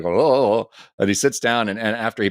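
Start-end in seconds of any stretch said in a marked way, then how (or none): 0.2-0.7 higher-pitched mock panicked ohs; mock freaking out. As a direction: imitate a fluster. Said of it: "like, freaking out".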